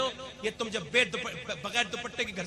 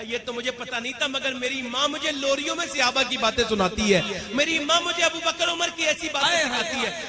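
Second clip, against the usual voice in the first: put-on raised, insistent voice of a pleading boy; earnest pupil's plea; 2 semitones higher, 7 dB louder than usual. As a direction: plead loudly with the teacher. Acts out boy pleading with teacher. (جوش بھری التجا)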